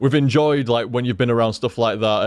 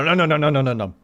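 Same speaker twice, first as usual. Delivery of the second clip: mock chip-eating chant; faster than usual. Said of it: "And I go".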